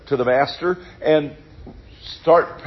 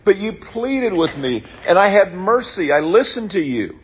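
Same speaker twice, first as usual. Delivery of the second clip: a much higher, wounded master's rebuke; indignant master; 6 semitones higher than usual. Retold or imitated. Master rebuking the servant he forgave, higher and hurt. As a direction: let him hear how much you forgave. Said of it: "It's almost like saying".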